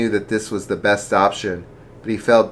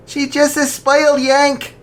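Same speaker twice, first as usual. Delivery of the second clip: scornful insult; 5 dB louder than usual. Acted. Daughter insults American girl.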